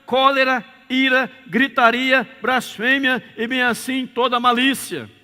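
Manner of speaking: loud, high preaching read of the verse; fiery sermon reading; preaching scripture. Acted. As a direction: proclaim each vice to the congregation.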